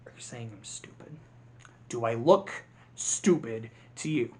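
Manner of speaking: low, hushed threat; quiet menacing grasshopper; menacing Hopper whisper. Retold or imitated. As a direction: whisper the insult like a bully. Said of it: "is the".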